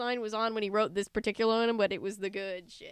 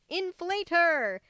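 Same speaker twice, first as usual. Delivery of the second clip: much higher, louder slow yell; 7 semitones higher, 6 dB louder, much slower than usual. A narrator's reading. Angry horror yelling at the crowd, slow furious yell. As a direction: drag the order out, furious. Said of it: "one of them yelled".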